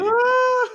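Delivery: high yelping laugh burst; a real squeal of laughter; shriek of laughter. Real, not acted. Host cracking up at the cheap trophy, squealing.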